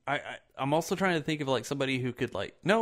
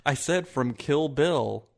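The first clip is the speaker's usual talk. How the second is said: slow, pointed repetition; loud sharp voice; 4 dB louder, slower than usual. Real, not acted. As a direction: spell it out, annoyed. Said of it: "don't yell at me".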